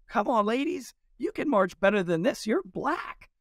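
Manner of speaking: high-pitched mock director's call to the troops; imitated bullhorn orders. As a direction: urge them on as if through a bullhorn, without really shouting. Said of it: "the bullhorn, and he says".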